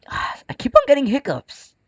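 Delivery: sighing whisper. Real, not acted. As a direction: breathe it out in a tired whisper. Complaining of hiccups.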